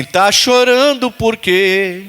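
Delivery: drawn out slowly, just spoken; slow spoken line. Shown as a demonstration. Preacher has congregation repeat the line, slow and spoken. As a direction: say it slowly, no melody. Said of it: "Fala assim".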